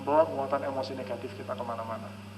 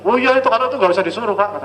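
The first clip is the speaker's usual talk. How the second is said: mother on the phone; 6 semitones higher, 12 dB louder than usual. Retold or imitated.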